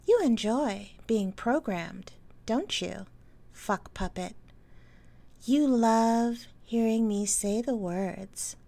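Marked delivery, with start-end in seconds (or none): 3.5-4.3 right in your ear. Acted. Trigger phrase in hypnosis.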